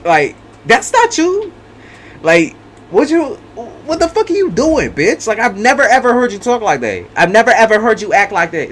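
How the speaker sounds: high, incredulous put-on voice of the betrayed one; shocked reaction. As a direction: play the stunned partner who can't believe it. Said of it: "You're like".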